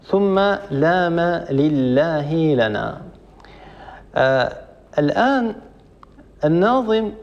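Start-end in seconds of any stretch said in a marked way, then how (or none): 0.1-3.0 slow verse recitation. Shown as a demonstration. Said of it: "reciting the verse".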